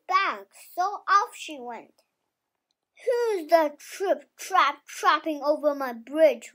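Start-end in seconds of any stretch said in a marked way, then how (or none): 3.0-6.5 loud, hammed-up troll challenge; a child's loud troll roar. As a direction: boom it out like a storybook troll from under the bridge. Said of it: "roared the troll".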